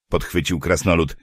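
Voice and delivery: ordinary delivery, nothing marked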